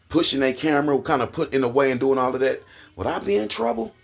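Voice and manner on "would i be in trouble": rhetorical question. Real, not acted. Rhetorical outrage at the police.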